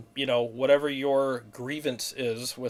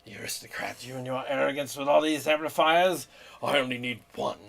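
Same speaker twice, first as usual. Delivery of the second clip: put-on snooty British accent; 4 dB quieter than usual. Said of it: "he also has a snooty accent".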